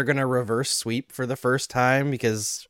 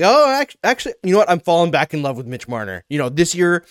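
fickle fan gushing. Retold or imitated. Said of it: "they're like".

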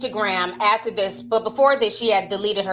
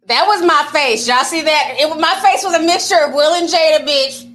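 excited; 3 semitones higher, 6 dB louder than usual. Real, not acted. Reacting to her own face.

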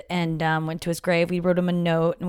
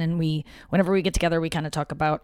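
talking fast; faster than usual. Real, not acted. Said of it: "I'm talking fast".

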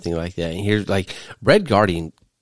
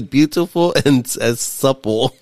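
mock flirt quote; 6 semitones higher than usual. Quoting Red Guardian flirting.

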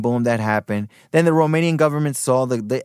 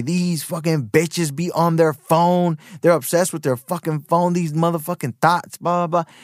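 exaggerated crude rant; 4 semitones higher than usual. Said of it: "when you exaggerate things and say".

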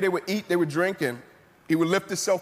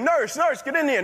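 higher-pitched mock yell for the nurse; retold yelling; 6 semitones higher than usual. Man calls the nurse after seeing a brick wall, retold yell. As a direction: imitate a patient urgently calling out. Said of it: "He started yelling, screaming".

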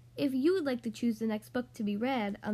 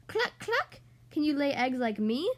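clucked. Acted. Cottage hen showing off to the duckling, clucking. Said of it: "clucked the hen".

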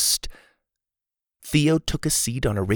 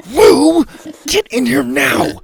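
high, loud urgent hiss-call; urgent call to a little sister; loud whisper-shout; 9 dB louder, slower than usual. A narrator's reading. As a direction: call her in sharply, half hushed. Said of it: "I whispered loudly".

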